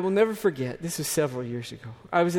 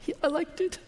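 put-on child's voice; 12 semitones higher, 4 dB quieter than usual. Child's reply in story.

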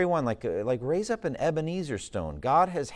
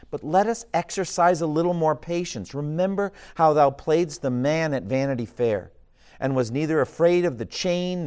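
earnest, louder brotherly plea; Hopeful pleading; 8 dB louder than usual. Acted. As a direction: urge him on with gentle force. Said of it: "said Hopeful".

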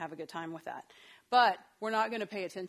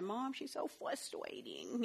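put-on slow, drawn-out little kid complaint; whiny toddler; 6 dB quieter, much slower than usual. Quoting her small son.

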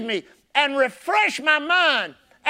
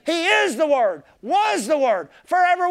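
preaching shout; 4 semitones higher than usual. Real, not acted. Preacher building to climax.

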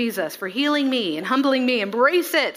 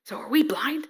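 mocking Pharisee question; 3 semitones higher than usual. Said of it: "Oh man".

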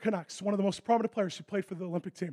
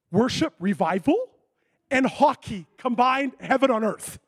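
slow and louder, savouring; delighted retold reaction; 3 semitones higher, 5 dB louder, slower than usual. Preacher delighted by the hockey crusade idea, savouring it. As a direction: relish the combination.

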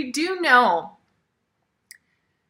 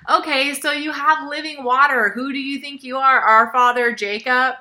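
a light touch of sass, mildly mocking; sassy comeback; 5 dB louder than usual. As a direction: toss it back with a hint of attitude. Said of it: "this kind of sassy singer".

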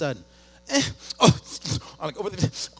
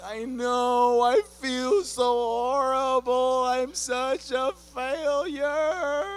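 ashamed; 7 semitones higher, 5 dB louder, much slower than usual. Retold or imitated. Ashamed reply to wife.

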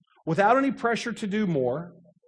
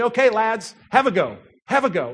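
louder, lightly put-on British coach accent; attempted British accent; 4 semitones higher, 5 dB louder than usual. Coach starting his players on a drill, rough British accent. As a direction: call it out with a hint of British. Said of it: "in this wonderful British accent, which I can't do".

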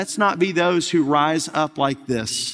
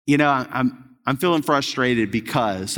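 calm admission; 4 semitones lower than usual. Retold or imitated. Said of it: "just for a moment and saying".

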